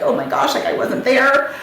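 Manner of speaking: overwhelmed. Retold or imitated. Wife realising she wasn't there, overwhelmed. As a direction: relive being overwhelmed, pitch lifted. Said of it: "like, I'm overwhelming".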